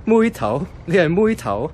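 amused surprise. Real, not acted. Realising his colleague is 妹頭, a high amused surprise. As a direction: catch on, delighted and amazed. Learns her nickname is 妹頭.

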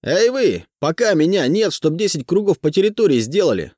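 shouting orders. A narrator's reading. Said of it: "кричит студентам".

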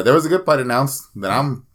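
slipping into a Filipino accent; a touch of Filipino accent, F sliding to P; accidental light Filipino accent. Real, not acted. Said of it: "why am I speaking like I'm Filipino".

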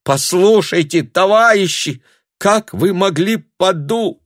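high, loud pleading; pleading appeal. A narrator's reading. Tanya appeals to the hostile crowd, pleading.

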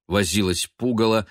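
ordinary delivery, nothing marked

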